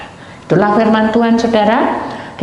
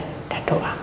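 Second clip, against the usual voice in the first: whispered, barely voiced; 9 dB quieter than usual. The man quietly agreeing to pray, in a whisper. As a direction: breathe it out without voice.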